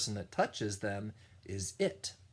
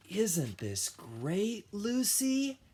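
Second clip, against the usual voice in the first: Ellie asking; 10 semitones higher, slower than usual. Acted. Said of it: "Ellie asked".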